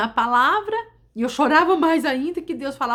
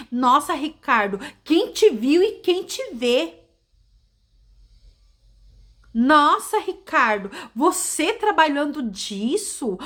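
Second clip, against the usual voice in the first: mock scorn; 3 semitones higher, slower than usual. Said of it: "a mulher dele chegou pra ele e falou assim".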